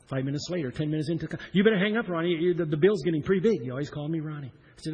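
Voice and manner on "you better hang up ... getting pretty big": dad's voice. Retold or imitated. Dad urging son to hang up.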